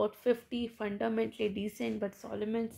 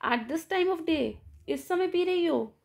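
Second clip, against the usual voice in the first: astonished; 5 semitones higher, slower than usual. Acted. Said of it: "amazed होते हैं".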